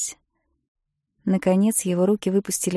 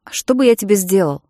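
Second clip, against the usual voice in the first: curt, abrupt; 7 dB louder than usual. A narrator's reading. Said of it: "отрывисто произнёс он".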